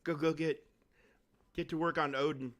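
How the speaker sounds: eager, quick and a bit high; hyped self-quote; excited. Retold or imitated. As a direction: relive the Monday rush of excitement. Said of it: "I was all excited on Monday".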